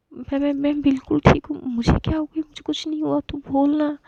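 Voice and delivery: put-on a hurt girl begging her friend to calm another, frantic; frantic urging. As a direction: push her desperately to say you're fine.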